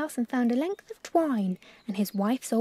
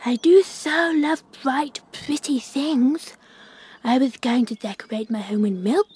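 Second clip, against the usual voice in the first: higher, greedy, showy bird voice; Magpie; 4 semitones higher, 3 dB louder than usual. Acted. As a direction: preen over the treasure. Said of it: "said Magpie".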